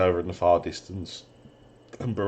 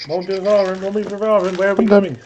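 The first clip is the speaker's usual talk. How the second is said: put-on child voice; 12 semitones higher, 5 dB louder than usual. DM voices child calling mother.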